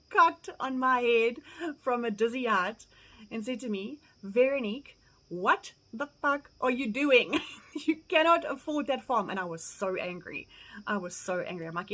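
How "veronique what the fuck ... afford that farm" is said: freaking out. Retold or imitated. Cousin freaking out over her farm offer, mock exasperated scolding. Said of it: "he freaked out".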